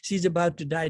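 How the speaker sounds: alarmed worry. Retold or imitated. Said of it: "And you think".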